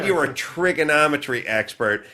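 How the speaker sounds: high, incredulous retold scolding; exasperated retort. Host scolding a self-declared expert, mildly exasperated retelling.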